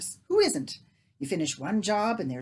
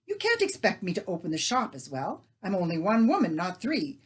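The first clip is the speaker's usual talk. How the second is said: scolding; 3 semitones higher, 6 dB louder than usual. Acted. Leah scolds neighbour.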